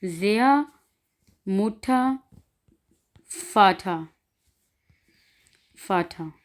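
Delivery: ज़िया, मुठा, फाठा each ending in open "aa"; final R as A. Shown as a demonstration. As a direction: model each word with a vowel ending. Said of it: "तो आ में बदल देना है".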